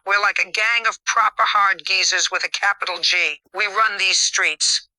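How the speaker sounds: cocky Yorkshire hard-man boast, last line slowed; Yorkshire accent. Acted. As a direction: brag like a Yorkshire lad. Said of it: "In her best Yorkshire accent".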